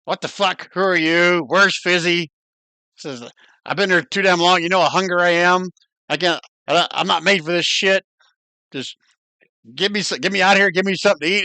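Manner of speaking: lightly voiced cranky spider; cursing spider. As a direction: complain like a trapped, starving spider.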